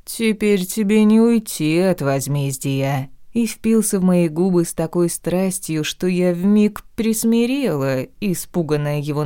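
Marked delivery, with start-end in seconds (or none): 0.0-3.1 sepulchral rasp. Acted. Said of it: "прохрипел он загробным голосом".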